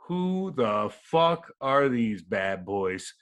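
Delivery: slow, drawn-out mock awe from a bar patron; awed bar patron. Imitating a bar patron staring at the hockey players, slow and awed. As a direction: stretch it out like a gawking stranger.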